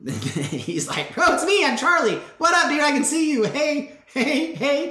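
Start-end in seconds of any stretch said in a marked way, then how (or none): 1.1-4.9 high, loud, overjoyed greeting; excited insistence. Acted. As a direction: call out eagerly to convince your friends. Acting healed Charlie greeting doubters.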